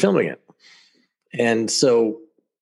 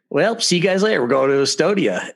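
triumphant; 8 semitones higher than usual. Retold or imitated. Triumphant retort to Russian officials.

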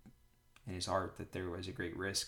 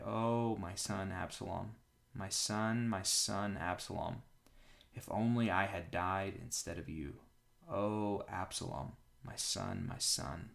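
understated lament with drawn-out names; grieving cry; slower than usual. Acted. King mourns his dead son Absalom, restrained grief. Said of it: "he cried".

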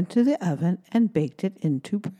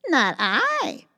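higher cat voice; purring cat voice; 6 semitones higher than usual. Acted. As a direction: purr it like a cat. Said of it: "purred the cat".

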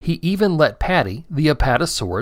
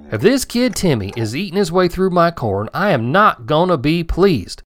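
higher, mildly annoyed farmer voice; grumbling farmer; 4 semitones higher than usual. Acted. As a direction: warn it like a farmer protecting his crop. Farmer grumbles about corn.

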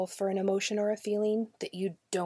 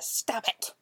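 mild mock yell, pitched up; mock scream; 4 semitones higher than usual. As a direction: imitate a child yelling, without full volume. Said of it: "then screams at Sarah".

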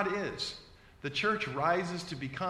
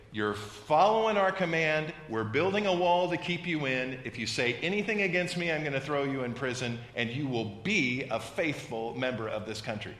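loud commanding decree, fading toward the end; dysfunctional dictator; 4 dB louder than usual. Retold or imitated. Preacher mocking a dictator, commanding then fading. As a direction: bark orders like a tyrant. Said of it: "If I was a dysfunctional leader of a nation".

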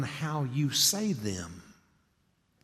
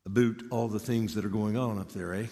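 mock Canadian accent, "about" as "a boot"; playful Canadian lilt ending on "eh?". Texan teases friends up in Regina, mock Canadian accent. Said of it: "go up to Regina to visit Kevin Vance and hear".

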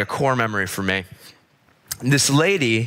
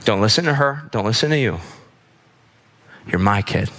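measured, pause-filled reassurance; tender reassurance; 3 semitones lower than usual. Acted. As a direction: let each short sentence settle, sincerely. Mom's reassurance repeated to the congregation.

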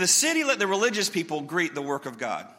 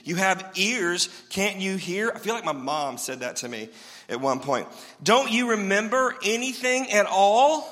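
turned-up rebuke. Acted. Jesus rebuking disciples who missed the point, exasperated. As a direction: scold them slowly, pressing each question. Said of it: "Jesus turns it up".

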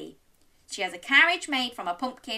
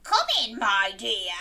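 scratchy wolf voice. Acted. Wolf in disguise answering Little Red, lightly scratchy. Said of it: "a deep, scratchy voice that answered".

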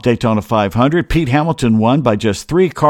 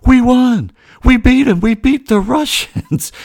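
much higher, excited shouting of the good news; dad's excited yell; 12 semitones higher than usual. Retold or imitated. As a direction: burst in yelling the victory. Dad bursts in after hockey win.

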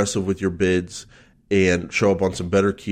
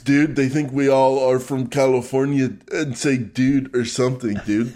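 high-pitched Californian "dude" caricature; mock American accent; 5 semitones higher than usual. Co-host mocks how Americans sound to Australians, caricatured Californian accent. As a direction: parody an American as foreigners hear one, pitched up. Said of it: "This is how we sound to them".

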